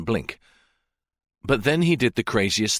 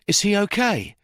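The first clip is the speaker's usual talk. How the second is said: much higher, worried plea; anxious question; 12 semitones higher than usual. Acted. Officer touches the victim's face, anxious high question. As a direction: ask it afraid of the answer. Deans anxious over Jake.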